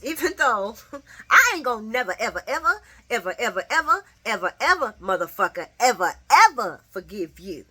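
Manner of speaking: building furious vow; angry. Retold or imitated. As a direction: spit out each ever harder. Acted quote of angry mother.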